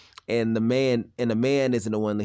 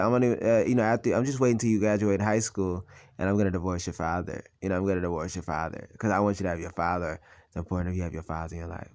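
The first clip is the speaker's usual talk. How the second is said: lower, quieter mock of mother; 5 semitones lower, 3 dB quieter, faster than usual. Son imitates mother's divorce plan. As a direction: drop low and mimic her. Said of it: "she was like".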